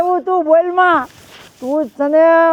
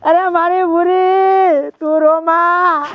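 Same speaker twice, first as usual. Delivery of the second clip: crying; 3 semitones higher, slower than usual. Acted. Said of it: "તમે રોવો છો".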